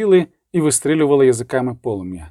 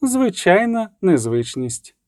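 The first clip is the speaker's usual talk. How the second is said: plain reading voice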